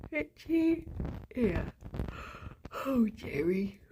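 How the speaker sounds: a soft unvoiced whisper to the bunny. Real, not acted. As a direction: breathe his name gently. Whispering to the rabbit.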